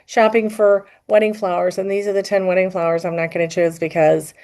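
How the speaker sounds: mock monotone influencer voice; TikTok monotone. Host demonstrating TikTok wedding-flower videos to co-host, droning monotone. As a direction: imitate a TikTok list video, keeping the pitch level. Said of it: "it's like this monotone".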